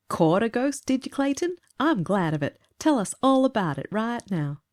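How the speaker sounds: shouted. A narrator's reading.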